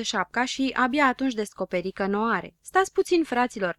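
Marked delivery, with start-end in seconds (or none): 2.6-3.8 high, urgent shout; calling out. A narrator's reading. Zăpăcilă calls to his friends to wait, shouting. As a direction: cry out to stop everyone. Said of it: "începu el să strige".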